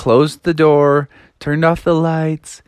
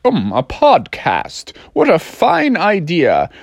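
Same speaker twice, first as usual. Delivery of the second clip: dad. Acted. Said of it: "And he's like".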